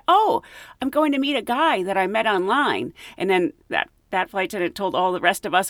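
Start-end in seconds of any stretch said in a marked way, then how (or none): 0.1-2.9 eager traveler. Retold or imitated. Passenger telling the crew about her online date, high and eager. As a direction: chirp it out brightly. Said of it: "she said".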